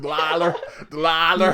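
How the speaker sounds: "Delilah" squashed to "Dlah-ler"; R on the end. Real, not acted. Host retrying his co-host's name, "Delilah" ending in r. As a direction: say "Delilah" with a final r, first syllable swallowed. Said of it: "you put an R on the end".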